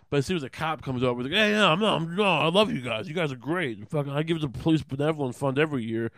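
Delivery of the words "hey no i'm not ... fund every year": higher, louder burst of placating; hasty backpedaling. Acted. Tough guy to a cop, suddenly ingratiating. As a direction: fall over yourself flattering the cop.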